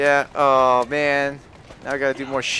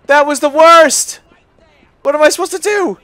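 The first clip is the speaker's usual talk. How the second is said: despairing wail; 11 semitones higher, 10 dB louder than usual. Real, not acted. Carriage wrecked in game.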